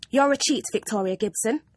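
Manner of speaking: a loud, accusing teacher's snap; furious. Acted. Teacher accusing the pupil of cheating, loud and furious. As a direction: fling the word cheat at her. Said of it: "she said furiously".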